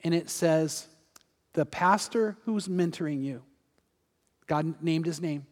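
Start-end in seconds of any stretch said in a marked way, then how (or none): 1.5-3.4 quiet, measured message from a divine voice; lightly voiced heavenly message; voice from God. God speaks to a praying woman, quiet and measured. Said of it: "there's a voice".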